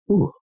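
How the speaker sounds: short, heavy "ooh" of breath; pained exhale. Real, not acted. Widower bracing to repeat the doctor's words, pained exhale. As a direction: steel yourself with a pained breath. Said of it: "it's always hard for me to say".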